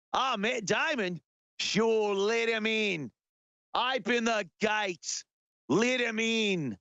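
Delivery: mock Aussie gatekeeper giving in; comic Australian official, won over; Australian accent. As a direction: wave him through in a stretched Australian accent. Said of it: "Australia goes".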